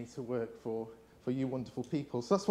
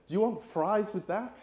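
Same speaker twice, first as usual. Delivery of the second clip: counter clerk; 4 semitones higher than usual. Retold or imitated. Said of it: "the guy behind the counter said".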